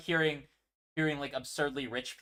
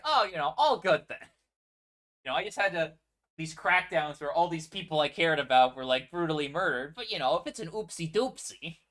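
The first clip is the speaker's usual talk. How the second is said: sarcastic fake acceptance; 3 semitones higher, 5 dB louder than usual. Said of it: "Echo doesn't think".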